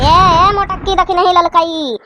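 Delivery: scolding yell; sharp shout. Acted. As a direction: cut them off. Mother shouting interruption.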